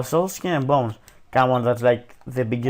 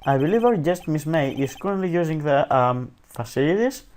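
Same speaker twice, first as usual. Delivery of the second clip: bad British accent; 2 semitones higher than usual. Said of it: "I do the worst British accent".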